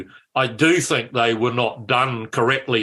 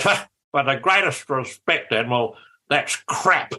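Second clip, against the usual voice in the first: Muldoon's cutting voice. Retold or imitated. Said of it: "Muldoon's voice was magic. It just chainsaw cut through".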